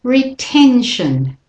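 slow "retention", stress on "ten"; model pronunciation. Shown as a demonstration. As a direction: say "retention" slowly and clearly. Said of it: "And once more".

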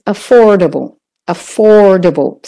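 "affordable" in American English, r sounded; American "affordable" with stressed OR; American pronunciation. Shown as a demonstration. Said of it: "If you're doing the American".

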